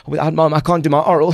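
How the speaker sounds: mock a child who can't cope alone; whining that he can't manage without mom; whiny child. Mimicking a clingy child.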